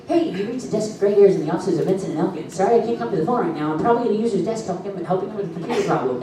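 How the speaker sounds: quick, cheery voicemail greeting. Retold or imitated. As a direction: rattle it off like an answering machine message. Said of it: "my audition to be a voice actor was".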